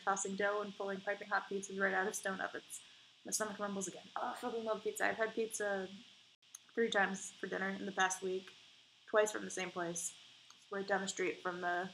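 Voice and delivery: normal talking voice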